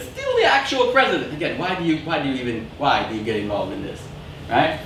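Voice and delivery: normal talking voice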